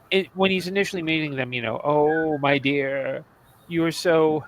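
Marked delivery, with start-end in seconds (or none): 1.8-4.4 mildly mock-condescending imitation; fake condescending. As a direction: imitate patronizing sympathy, drawing out the opening. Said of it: "very fake condescending".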